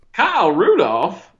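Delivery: put-on Southern accent. Riffing on football tight end names: southern accent. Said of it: "say it in a Southern accent".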